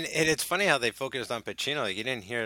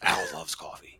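whisper; 6 semitones lower than usual. Retold or imitated. Whispered tag to the Pacino bit.

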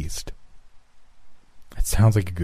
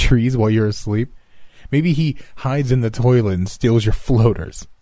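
loud, fast mocking; mocking teasing; 3 semitones higher, 3 dB louder than usual. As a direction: tease him loudly. Teasing friend loudly.

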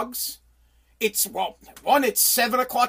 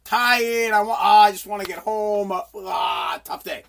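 tired husband; 2 semitones lower than usual. Acted. Husband hinting to wife he wants home, hammed-up tired. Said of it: "the husband's already putting the hints out there".

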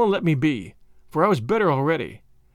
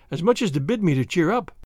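usual speaking voice

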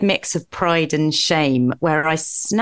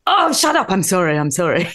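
mock snap then apology. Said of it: "I'll be like".

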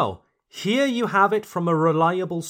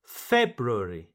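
FEB-roo-air-ee, February leaning on FEB; stress on first syllable; 5 semitones lower than usual. Shown as a demonstration. Teacher shows where the accent goes, February stressed on FEB. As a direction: hit the first syllable of February, then fall away. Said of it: "the emphasis on the first syllable".

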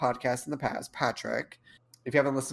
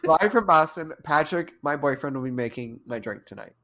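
show host intro; 4 dB louder than usual. Pretend.

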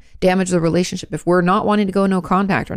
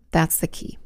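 whispered emphasis; 2 semitones lower, 6 dB quieter than usual. Real, not acted. Telling viewers the secret of boundaries, whispered. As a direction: whisper the key point.

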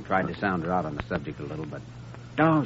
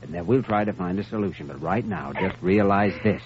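put-on doctor consoling the sobbing girl; tender comfort. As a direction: hush her gently, like calming a child.

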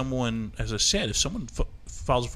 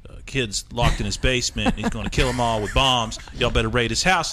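low, hushed fake tipster; fake tipster call; 4 semitones lower than usual. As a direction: lightly voice a lying caller. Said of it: "call in a false police report and say".

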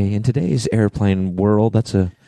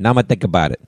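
a light mock New York accent, falling flat and sure; New York accent imitation; much faster than usual. Friend mimics the Subway story line in New York accent. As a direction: toss it off like a New Yorker brushing off a deal. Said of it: "that's my New York accent right there".

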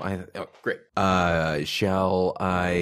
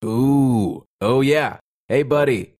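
taunting enforcer; 4 semitones higher, 3 dB louder than usual. Acted. Character taunts suspect through door.

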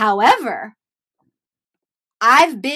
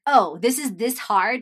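mock scoffing; 4 dB louder than usual. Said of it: "this is literally my mindset".

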